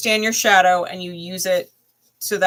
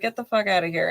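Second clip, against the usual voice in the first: New Jersey emphasis; faster than usual. Pretend. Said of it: "Say it in a New Jersey accent and add emphasis".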